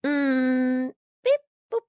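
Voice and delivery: toy robot voice. Acted. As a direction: beep like a cheap little robot. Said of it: "the most unsophisticated droid ever".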